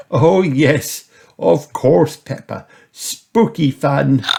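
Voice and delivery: amused granny. A narrator's reading. Granny reassures Peppa, lightly laughing. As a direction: confirm it with a light chuckle. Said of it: "said Granny Pig, laughing".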